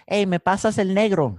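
put-on high, bright childlike ask in Spanish; a child asking for the black crayon; child at coloring table asking for the black crayon; kid asking for crayon. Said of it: "as a kid, I'm coloring".

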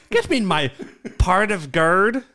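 mock the botched "gird", drawn out slowly; mocked leprechaun accent. Host mocking co-host's botched leprechaun line, mimicked accent. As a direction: imitate the bad accent, dragging "part of gird".

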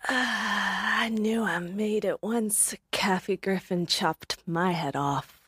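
lightly voiced slow stoner; a hint of slow stoner drawl; California stoner. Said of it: "California stoner".

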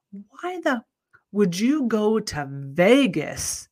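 rising high, slowing on the last words; ranting to her husband about masks in Vegas; incredulous rant. Retold or imitated. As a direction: drag out the disbelief at the end.

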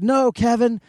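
high-pitched hammed-up cry; mock panic. Friend acting out a heart attack rescue, mock panic. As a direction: pretend to plead with a dying friend.

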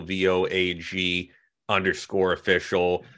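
V O A G spelled letter by letter, slowly. Shown as a demonstration. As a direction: spell out V O A G before underscore official. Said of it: "at Vogue underscore official".

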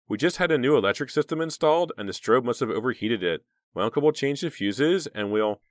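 high and loud, nervously explaining; scared. A narrator's reading. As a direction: rush through the excuse, frightened. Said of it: "still sounding scared".

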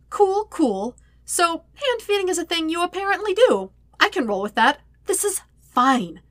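high, flustered self-talk, slowing at the end; flustered rambling to himself. Acted. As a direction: talk yourself down while flustered. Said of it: "Sokka rambled to no one".

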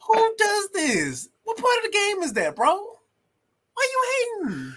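hammed-up disbelief; mock outrage. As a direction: act baffled by the hate. Mock indignant questions.

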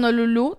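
Honolulu with the accent on the final U; stress on last syllable. Shown as a demonstration. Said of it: "tiene acento en la última U".

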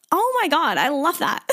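high, excited gush; thrilled reaction to a cool idea; delighted. Real, not acted. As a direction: squeal of delight. Delighted reaction after laugh.

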